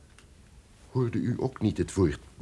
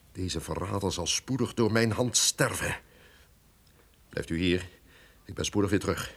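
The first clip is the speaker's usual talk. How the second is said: reassuring; 4 semitones lower, 5 dB quieter than usual. Acted. Duke reassures Leonora.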